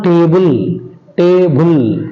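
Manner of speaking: table with weight on its first syllable, "TA-ble"; stress on first syllable of table. Shown as a demonstration. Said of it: "on the first syllable".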